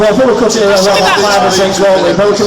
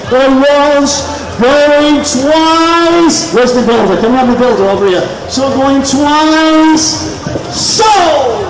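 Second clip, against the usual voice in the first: auctioneer calling going twice; 2 semitones higher, much slower than usual. Pretend. Auction close, drawn out.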